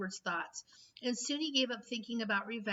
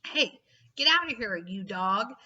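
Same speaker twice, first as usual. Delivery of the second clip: shouting madman; 6 dB louder than usual. A narrator's reading. Garbage king yelling at the dog. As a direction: bellow to chase off the dog. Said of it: "It was Ernest".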